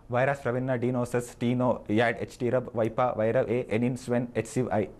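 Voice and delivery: sentence spelled and said backwards; backwards speech. Shown as a demonstration. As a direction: read each word in reverse. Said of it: "If you want to say that backwards".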